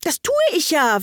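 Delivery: high, prompt protest; quick interjection. A narrator's reading. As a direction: jump in with a defensive objection. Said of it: "warf Alice schnell ein".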